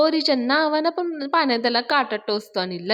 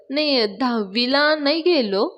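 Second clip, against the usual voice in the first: slower, faltering confession; stammering admission; 4 semitones higher, slower than usual. Acted. Mechanic admits to loan officer he failed tenth, faltering. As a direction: trip over the words a little. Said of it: "थोडा अडखळतच सांगतं".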